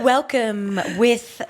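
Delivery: husky rasp on the words; raspy voice. Real, not acted. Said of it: "The raspy ah".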